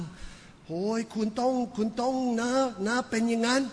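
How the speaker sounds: high, slow, insistent landlady voice; mock loud landlady on the phone; landlady talking loud on the phone. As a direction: push the point in a high drawn-out voice. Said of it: "เขาก็พูดเสียงดัง".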